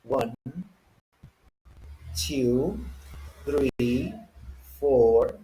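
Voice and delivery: American pronunciation, one number at a time; measured American-accent number drill. Shown as a demonstration. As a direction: count in clear American English, R's sounded. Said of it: "Let's start with the American way".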